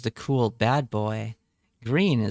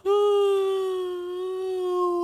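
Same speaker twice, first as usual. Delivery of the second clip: long high yawning sigh; big yawn. Real, not acted. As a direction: let out a huge yawn. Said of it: "Sorry, I yawned".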